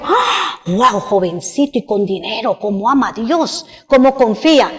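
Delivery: impressed onlookers. Retold or imitated. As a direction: hush it like awed bystanders. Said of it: "los que estaban alrededor dijeron".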